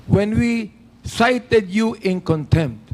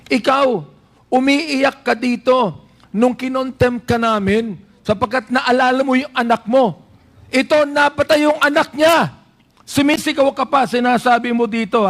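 raised pitch, forceful accusation; insistent rebuke, pushed for emphasis; dynamic emphasis; 3 semitones higher than usual. Real, not acted. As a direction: drive each point home emphatically. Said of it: "To give emphasis to what I'm trying to say".

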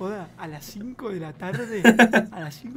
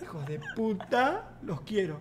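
ordinary talk, nothing marked

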